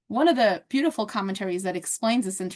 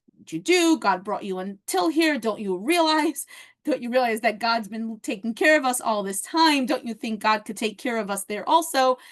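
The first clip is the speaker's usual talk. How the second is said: retold scolding. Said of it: "the equivalent of a good yelling".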